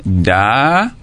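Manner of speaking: DA alone, long and rising; separated syllable. Shown as a demonstration. Teacher splitting madame for pupils, a lone drawn-out syllable. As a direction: stretch "da" as its own syllable. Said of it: "Vous avez ouvert la bouche trois fois".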